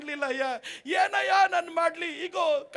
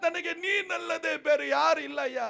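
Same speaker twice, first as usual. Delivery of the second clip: retold loud cry to Jesus; 2 semitones higher than usual. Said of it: "ಗಟ್ಟಿಯಾಗಿ ಕೂಗ್ಲಿ ಹೇಳಿದ್ರು".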